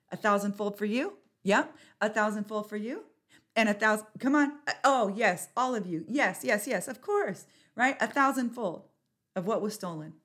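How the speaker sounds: loud, fired-up rallying cry; roaring rallying speech. Acted. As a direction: pump up the crowd loudly. Rallying the crowd, hands up.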